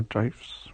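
"gifs" with a long i, like "jifes"; long-vowel pronunciation. Shown as a demonstration. Teasing partner about cute sloth pictures, long-vowel "gifs". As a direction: say "gifs" to rhyme with knifes. Jokingly tries rival pronunciations.

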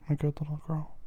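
high coaxing whisper. Acted. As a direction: coax her in a whisper. Coaxing in a hush.

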